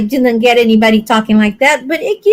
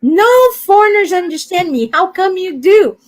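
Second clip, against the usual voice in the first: Alabama boss; 5 semitones higher than usual. Retold or imitated. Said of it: "a boss from Alabama".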